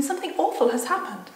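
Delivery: put-on mildly panicked storybook child; dread. Frightened Susan acted in story.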